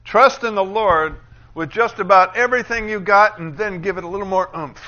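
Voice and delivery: loud, high, overstrained parody of scripture reading; mock effortful reading. Preacher imitating how a lot of people read it, straining loudly. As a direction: push it out with exaggerated effort. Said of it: "a lot of people read it like this".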